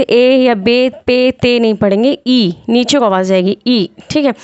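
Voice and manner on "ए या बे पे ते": "ए या बे, पे, ते" with open "e" vowels instead of "ee"; majhool, wrong reading. Shown as a demonstration. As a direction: demonstrate the mistaken "e" sound in "ए या बे, पे, ते". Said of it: "इसे मजहूल नहीं पढ़ेंगे".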